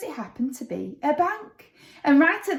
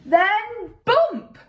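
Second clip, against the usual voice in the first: excited bump; 9 semitones higher, 4 dB louder than usual. A narrator's reading. Landing sound word.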